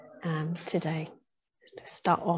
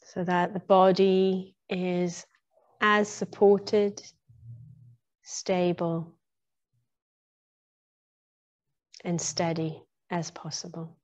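guided meditation. Real, not acted. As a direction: ease listeners gradually into stillness, phrase by phrase. Leads into a meditation.

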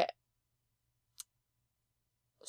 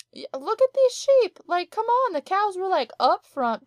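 much higher and louder, mock outrage; indignant at the sheep; 10 semitones higher, 9 dB louder than usual. Real, not acted. Scolding the sheep for bullying the cows, high indignant. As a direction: squeal your outrage at the sheep.

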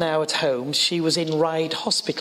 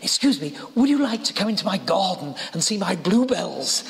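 lightly imitated posh English accent; a touch of posh old lady's English. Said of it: "posh voice".

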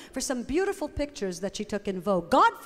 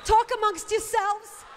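slow, higher, choked-up hostess; Coffee Talk catchphrase; 9 semitones higher, 3 dB louder, slower than usual. Acted. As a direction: fan yourself and stall, slowly. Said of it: "I'm starting to get a little verklempt".

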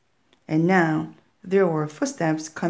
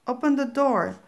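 a hint of a coaxing witch, somewhat higher; lightly voiced old witch tempting the child; witch's voice; 6 semitones higher than usual. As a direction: sweet-talk the girl into opening up, lightly voiced. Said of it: "said the voice".

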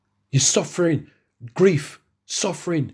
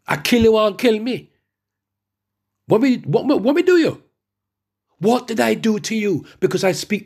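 indignant protest; 7 semitones higher than usual. Acted. Acts out confronting his arresters.

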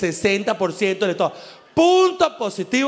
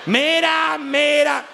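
mocking look; 4 semitones higher, much slower than usual. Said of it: "Y uno dice".

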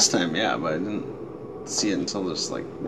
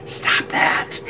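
annoyed game unit; 4 dB louder than usual. Real, not acted. Scolding a game companion.

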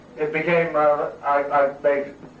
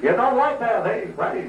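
put-on New York Jewish accent; 6 semitones higher than usual. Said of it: "a New York Jewish accent".

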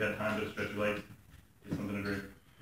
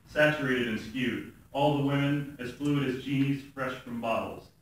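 measured, even spoken-word delivery; poem reading. Acted. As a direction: read it as a poem, pausing between images.

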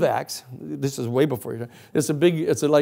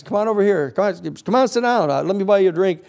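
higher-pitched, chummy coaxing; hearty invitation; 5 semitones higher than usual. Acted. Investigator coaxes his target to drink, hearty and higher. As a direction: wave an old pal over to your table.

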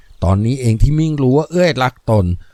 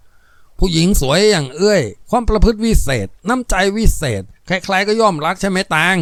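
admiring Lop, lightly voiced; 6 semitones higher than usual. Lop praising Auey.

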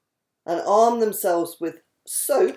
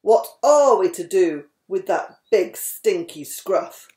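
lightly lowered grumpy old badger; a hint of a fed-up old badger; gruff huffing badger; 4 semitones lower than usual. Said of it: "old Badger said".

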